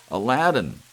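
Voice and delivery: loud high shout of one word; angry shout. Acted. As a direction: bellow the name. George yells at room.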